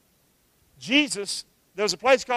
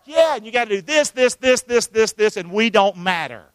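acted angry comeback; 4 dB louder than usual.

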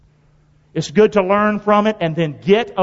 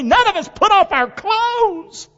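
emphatic scripture reading; 12 semitones higher, slower than usual. Acted. Reading Nehemiah's vow with emphasis.

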